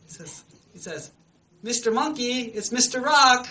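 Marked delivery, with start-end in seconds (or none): 1.7-3.4 high, loud put-on character voice; hammed-up cheery fake voice, pitched up; talking rock voice. Crocodile posing as a magic rock, in a put-on voice.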